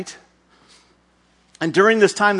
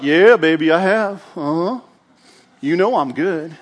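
smug strut. Acted. Saul basking in praise.

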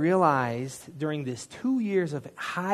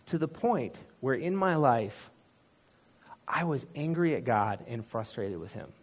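normal talking voice

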